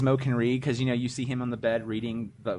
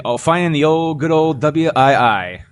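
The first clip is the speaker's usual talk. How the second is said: loud, slow nostalgic veteran; nostalgic old vet; 3 semitones higher, 9 dB louder than usual. Retold or imitated. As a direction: relish it like an old soldier. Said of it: "He's like".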